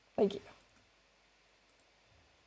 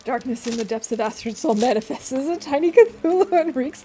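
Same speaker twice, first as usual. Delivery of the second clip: dramatic reading; 3 semitones higher, 5 dB louder than usual. Acted. Reading game text dramatically.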